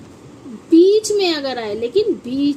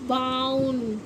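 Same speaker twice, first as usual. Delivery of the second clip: बाउन said softer, falling; softer repeat; 2 semitones lower, 7 dB quieter, much slower than usual. Shown as a demonstration. Teacher softly repeats the word to herself. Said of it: "O sorry".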